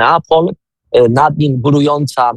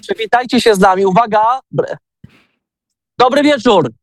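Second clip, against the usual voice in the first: raised, high call to a crowd across the room; calling out to group; 7 semitones higher than usual. Real, not acted. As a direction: call the group to greet the listeners. Host calls group to greet radio.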